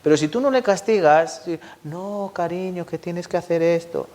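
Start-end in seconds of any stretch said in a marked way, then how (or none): 1.8-4.1 soft mock mother. Lax mother gently asking child.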